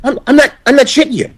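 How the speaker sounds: high, shaken, laughing recruit voice; panicked Jimmy. Retold or imitated. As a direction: gasp it out like he nearly died. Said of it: "he's like".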